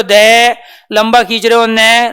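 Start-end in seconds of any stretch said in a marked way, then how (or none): 0.0-0.6 दे with its vowel held long; sustained, voiced दे; drawn-out syllable. Shown as a demonstration. 1.7-2.1 ने with its vowel held long; sustained, voiced ने; drawn-out syllable. Shown as a demonstration.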